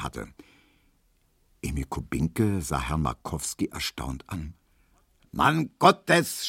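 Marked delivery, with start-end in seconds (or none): 5.3-6.5 exasperated high cry; raised, high-pitched outburst; shouting. A narrator's reading. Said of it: "schrie der".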